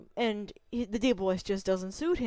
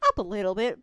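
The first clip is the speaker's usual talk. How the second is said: voice pitched up; 2 semitones lower, faster than usual. Shown as a demonstration. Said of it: "then I can go".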